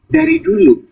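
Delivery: high sharp question; probing question. Retold or imitated. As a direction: press him for an answer.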